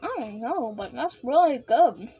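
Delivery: talking with mouth full. Real, not acted. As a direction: talk through a mouthful of ice cream. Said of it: "My apologies for talking with my mouth full".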